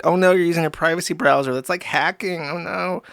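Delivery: a light, quick mock fretting; mock alarm. Mocking a platform's complaint.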